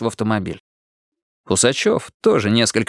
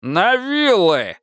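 rabble-rousing shout; 8 semitones higher, much slower than usual. A narrator's reading. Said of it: "взмахнул рукой Гаврила".

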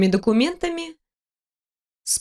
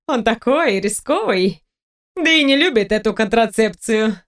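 taunting seductress; 2 semitones higher than usual. Acted. Kate taunts the heroine.

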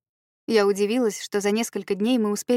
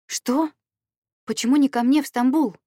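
startled, pitch jumping up, louder; surprised; 5 semitones higher, 4 dB louder than usual. A narrator's reading. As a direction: caught off guard, demanding why. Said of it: "удивилась я". (удивлённо, голос резко вверх)

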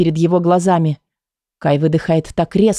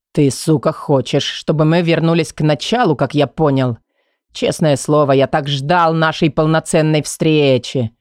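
low menacing male voice; 3 semitones lower than usual. Acted. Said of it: "в голосе Кая те самые нотки".

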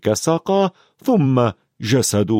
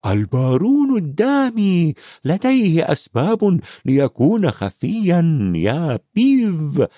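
hoarse whisper; 6 semitones higher than usual. A narrator's reading. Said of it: "بصوت هامس أجش".

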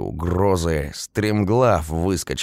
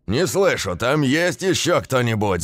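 yelling in ear; 8 semitones higher than usual. A narrator's reading. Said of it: "заорал мне в ухо дядька".

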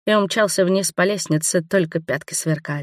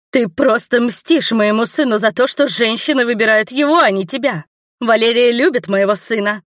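a higher, louder indignant countess; countess cutting in; 6 semitones higher, 4 dB louder than usual. A narrator's reading. Countess interrupts Robert to defend her son, indignant and higher. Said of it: "встряла графиня".

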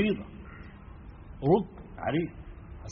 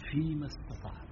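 softer, confiding aside; hushed, as if in the ear; 6 dB quieter than usual. Shown as a demonstration. Preacher voicing the Prophet's private permission, softly confiding. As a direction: let it drop to a private murmur. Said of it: "كأنه بيقولها له في ودنه".

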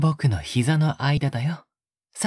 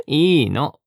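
amused insistence; 4 dB louder, much slower than usual. Acted. Laughs off objection while feeding. (くすくす笑ってから甘く言い張る)

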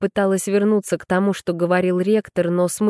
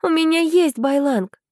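high, insistent objection on "У"; objecting; 10 semitones higher than usual. A narrator's reading. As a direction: push back, stressing "У" high. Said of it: "возразила я".

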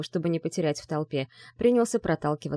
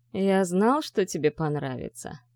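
cold smile. Acted. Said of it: "холодно улыбнулся Марк".

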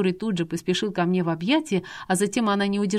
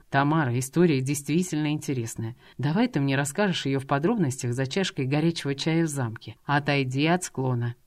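low, steady persuasive voice; a man calmly coaxing a woman away from the cliff; 3 semitones lower than usual. Acted. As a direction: coax her back gently.

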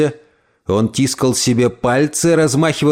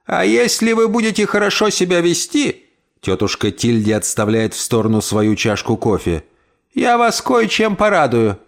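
high teasing promise; lightly voiced aunt, coy; playful old lady; 5 semitones higher than usual.

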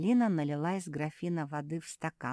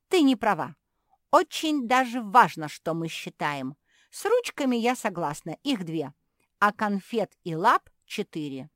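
higher, louder puppy voice; indignant argument; 5 semitones higher, 9 dB louder than usual. Acted. Puppy arguing with her sister, indignant and louder. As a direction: argue back hotly.

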